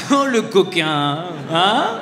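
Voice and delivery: drawn-out teasing "Oh, le coquin"; slow, amused mock reproach; mock scolding. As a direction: tease him, stretching the "Oh". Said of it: "je dis coquin".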